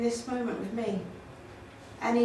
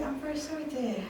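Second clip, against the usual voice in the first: quiet doctor; 10 dB quieter than usual. Retold or imitated. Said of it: "somebody might hold your hand and say".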